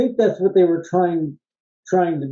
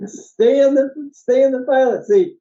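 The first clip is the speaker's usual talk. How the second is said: imitated pilot order; 9 semitones higher, 3 dB louder than usual. Quoting pilot yelling at stewardess.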